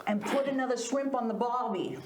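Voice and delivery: stock Australian phrase in a put-on accent; Aussie accent. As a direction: imitate an Aussie. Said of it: "Give us an Aussie accent".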